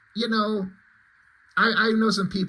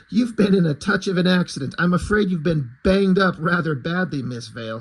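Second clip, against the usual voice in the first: fake British accent; 4 dB louder than usual. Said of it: "trying to fake British dialect".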